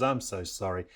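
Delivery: low, subdued sorry; understated retold contrition; tearful apology. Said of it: "I'm crying and I'm saying".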